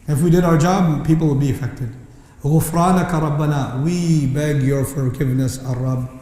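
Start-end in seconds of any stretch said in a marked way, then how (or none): 2.4-3.8 quick Quranic recitation; recited plea. Real, not acted. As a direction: recite the verse swiftly.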